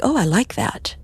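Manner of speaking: whispered delight. Retold or imitated. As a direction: breathe it out as a gentle discovery. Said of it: "I'm like".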